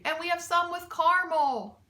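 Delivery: laughing. A narrator's reading. Mac keeps listing candy, laughing. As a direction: grin through it. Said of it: "he was laughing and laughing".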